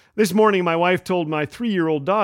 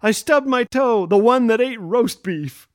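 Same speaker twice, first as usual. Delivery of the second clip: mild mock yell, raised pitch; lightly imitated yelling, slowing at the end; retold child's yell; 4 semitones higher than usual. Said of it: "he yelled down to me".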